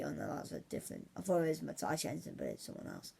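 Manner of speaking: half-whispered to himself, correcting a mistake; muttered aside. Real, not acted. Catching his own mistake mid-prediction, muttered aside. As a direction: mutter it under your breath.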